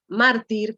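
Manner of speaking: "Mártir" with weight on the opening már; stress on penultimate syllable. Shown as a demonstration. Teacher giving an example of a grave, "Mártir" stressed on már. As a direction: lean on the first syllable of "Mártir". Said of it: "su fuerza de voz está en la penúltima".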